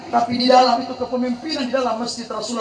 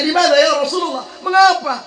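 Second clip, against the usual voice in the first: puzzled question; 4 semitones higher than usual. Retold or imitated. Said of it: "Sahabat bertanya".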